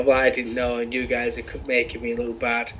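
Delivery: British-tinged mock redneck accent; badly faked American redneck accent; A J Styles redneck accent. Co-host retelling wrestler's complaint about looking bad, mock redneck accent. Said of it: "Your British redneck is cracking me up".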